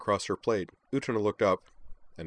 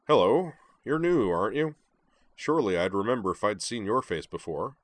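booming greeting. Acted. Moose greets newcomer.

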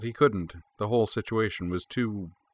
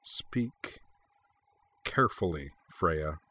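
hushed warning, spaced word by word; slow, low voice; 3 semitones lower, 6 dB quieter, slower than usual. A narrator's reading. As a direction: warn her slowly and very quietly. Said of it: "said Corwin slowly, his voice low".

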